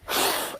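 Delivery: sharp blown whoosh of breath; blowing out fire. Acted. Naruto shooting fireballs, blowing hard. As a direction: imitate fire blasting from the mouth.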